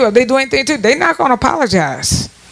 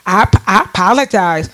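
I apologize said lower and offhand; mocking apology, pitched down; 3 semitones lower than usual. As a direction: toss it off low, as if it costs nothing. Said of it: "That's how they say it".

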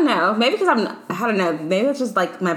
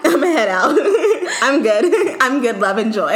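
laughing imitation; 3 semitones higher, 4 dB louder than usual. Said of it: "repeating friend's phrase".

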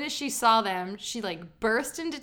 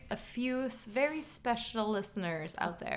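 sultry voice; 2 semitones lower, 5 dB quieter than usual. Pretend. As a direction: purr it like a sultry host. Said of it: "She said that in a sultry voice".

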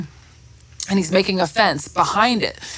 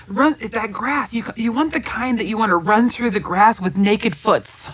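slow Bob Ross voice; slower than usual. Retold or imitated. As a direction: drawl it out dreamily like the show. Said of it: "And then he said".

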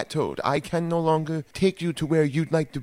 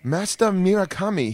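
put-on slipping Japanese accent; 3 semitones higher than usual. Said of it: "I am almost talking like I am from Japan".

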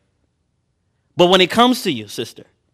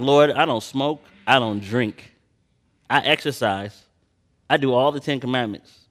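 self-righteous. Retold or imitated. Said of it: "self-righteously".

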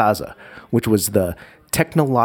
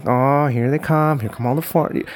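imitating vendors; 4 semitones higher than usual. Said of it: "said it exactly like that".

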